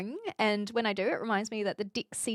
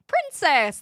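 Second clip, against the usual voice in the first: triumphant find; 5 semitones higher, 5 dB louder than usual. Real, not acted. Triumphantly lands on the missing word.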